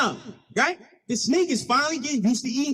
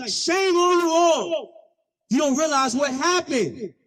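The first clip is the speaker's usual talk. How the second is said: raised, drawn-out reproach; scolding; 3 semitones higher, slower than usual. Acted. Eulogy speaker scolding the crowd.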